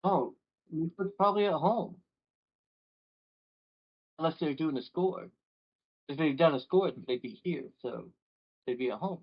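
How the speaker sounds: stoner NPC voice. Acted.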